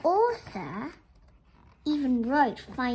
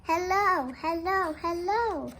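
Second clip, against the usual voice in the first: calling out; 2 semitones higher than usual. Acted. Teacher repeating the book's refrain to the class, sing-song calls.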